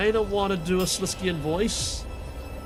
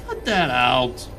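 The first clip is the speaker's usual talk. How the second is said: much lower, slow dark voice; deep sinister voice; 6 semitones lower, 3 dB louder, much slower than usual. Acted. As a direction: growl it low and slow. Second shadow voice.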